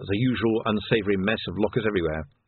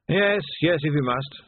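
higher, put-on officer's voice; reluctant captain; 7 semitones higher than usual. Captain agrees to the search, reluctant officer's voice.

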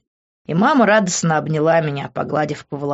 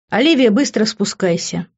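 commanding; 5 semitones higher, 3 dB louder than usual. Acted. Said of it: "приказал Хью".

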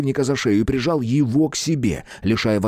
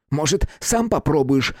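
snapping back; 5 semitones higher than usual. Acted. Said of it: "огрызнулся Хлюпа".

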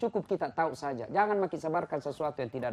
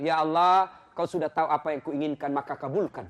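casual laughing prayer. Shown as a demonstration. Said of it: "Boleh begitu".

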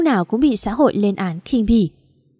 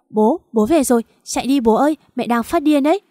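louder, higher, panicky warning; urgent warning cry; 4 semitones higher, 4 dB louder than usual. Acted. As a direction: shout at dad to run away. Daughter warns father to flee.

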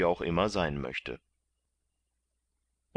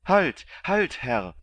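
high, loud cry to stop the beating; shouting; 10 semitones higher, 7 dB louder, slower than usual. A narrator's reading. Kandid shouts at the galley master to stop. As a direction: yell at him to halt, much higher and louder. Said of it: "schrie Kandid".

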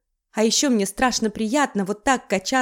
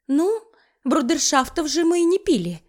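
silly giggle; 5 semitones higher than usual. Acted. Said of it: "глупо хихикнула я".

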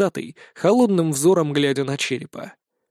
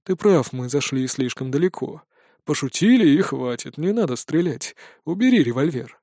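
soothing persuasion; 2 semitones lower than usual. Acted. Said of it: "уговаривать его Дантес".

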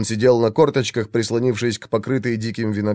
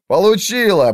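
loud, higher whoop of victory; triumphant cry; 8 semitones higher, 4 dB louder than usual. A narrator's reading. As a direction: shout it, the hit just landed. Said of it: "радостные мужские голоса". (радостный победный возглас)

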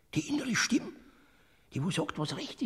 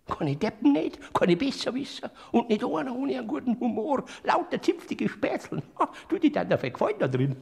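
excited; 4 semitones higher, 6 dB louder, faster than usual. Acted. Enthusiastic description of paradise.

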